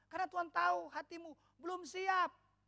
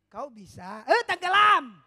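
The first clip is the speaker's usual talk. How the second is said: sudden sinking; 14 dB louder, slower than usual. Retold or imitated. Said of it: "Petrus bilang gini".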